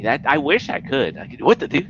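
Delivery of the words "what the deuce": brief, half-hearted cartoon baby impression; Stewie. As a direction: try the Family Guy baby, not quite getting it. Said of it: "Can you do Stewie?".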